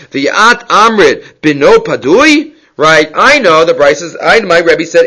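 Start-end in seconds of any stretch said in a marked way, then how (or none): 0.1-2.5 slow rising tune of disbelief on padui; incredulous question. Acted. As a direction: ask it back as if it can't be. Gemara asks the brisa back.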